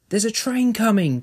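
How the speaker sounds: put-on terrified girl screaming at her mother; panicked scream. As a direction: shout the warning in panic. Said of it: "Jenny would scream".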